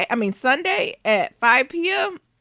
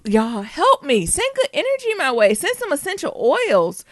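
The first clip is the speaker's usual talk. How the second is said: playful plea; 5 semitones higher than usual. Real, not acted. Podcaster asking listeners for good energy, playful plea. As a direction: beg for help, stretching the words. Check-in, begging listeners for help.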